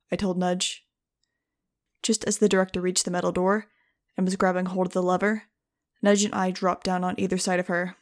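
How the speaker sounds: steady audiobook narration voice; story narration. A narrator's reading. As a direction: read the chapter like an audiobook. Audiobook chapter read aloud.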